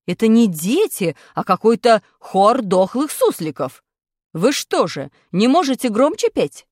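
loud, slow angry scolding; furious teacher scolding choir. Acted. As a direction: tell the class off.

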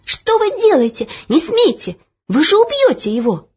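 put-on high desperate girl's cry; shouting. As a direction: cry out to stop him. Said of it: "крикнула".

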